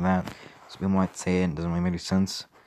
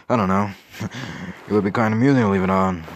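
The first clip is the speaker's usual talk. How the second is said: snickering; faster than usual. Acted. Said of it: "Mouse snickered".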